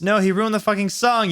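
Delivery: high, angry shout; angry yell. A narrator's reading. Samaro yelling that the song was ruined. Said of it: "yelled Samaro".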